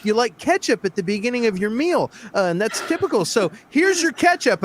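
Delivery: smug waiter. Retold or imitated. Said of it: "And I go".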